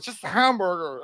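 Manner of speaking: slurred imitation of a drunk order; drunken garble. Drunk man ordering at McDonald's, imitated slurred speech. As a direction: mumble it like a barely intelligible drunk. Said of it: "I don't even know how she understood me".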